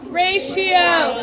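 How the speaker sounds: aimed down, falling at the end; call-out dropping away at the end; said to the floor. Shown as a demonstration. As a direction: send the word down to the floor. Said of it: "say it to the floor".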